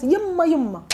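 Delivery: "Yamma, yamma" repeated high and emphatically; emphatic. Shown as a demonstration. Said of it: "If you wanna emphasize".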